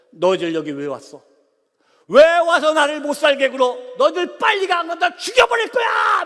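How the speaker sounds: a spirit snarling at the intruders, growing into a scream; demonic threat. Retold or imitated. Possessed sister threatens missionaries.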